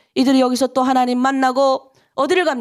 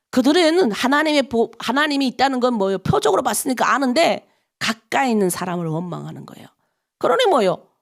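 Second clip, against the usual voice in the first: ordinary talk, nothing marked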